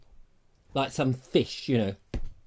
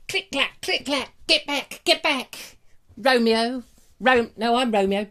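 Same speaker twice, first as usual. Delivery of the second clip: swashbuckling Romeo; 6 semitones higher, slower than usual. Acted. Fencing Romeo again.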